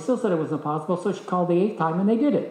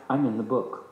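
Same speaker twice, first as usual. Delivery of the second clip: laughing; 4 semitones lower than usual. Retold or imitated. Humble-brag punchline.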